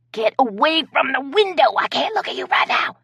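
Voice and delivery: trying not to crack up; laughing whisper. Acted. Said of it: "Carrie whispered".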